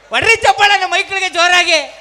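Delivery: big emcee holler; rousing applause call. Real, not acted. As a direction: whip the audience up to clap. Host asks audience for applause.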